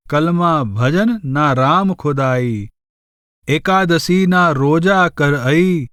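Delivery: slow, measured devotional verse; unhurried scripture-style verse reading; verse recitation. Acted. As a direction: recite the couplet slowly, drawing out the words.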